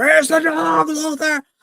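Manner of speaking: very high scream. Retelling a movie scene where Superman confronts Lex Luthor: imitating Superman screaming. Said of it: "Lex Luthor and is screaming".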